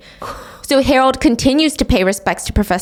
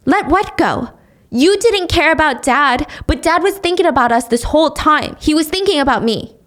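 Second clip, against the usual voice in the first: hurt anger; 5 semitones higher than usual. Acted. Sonny argues back at mom.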